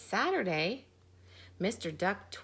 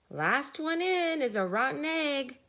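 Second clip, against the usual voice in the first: cheeping chick voice; 6 semitones higher than usual. A narrator's reading. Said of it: "cheeped a chick".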